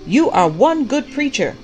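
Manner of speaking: loud, high-pitched heckling praise; shouted back. A narrator's reading. Prophet answers the preaching pastor from the congregation, shouting back. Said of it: "the prophet shouted back".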